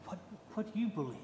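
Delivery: fast, hushed aside between disciples; hushed nudge. Retold or imitated. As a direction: whisper it quickly to the man beside you. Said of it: "nudging each other like".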